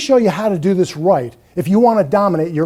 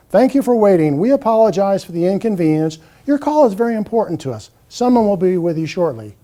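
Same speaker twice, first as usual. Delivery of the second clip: monotone voice. Retold or imitated. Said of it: "some type of monotone voice says".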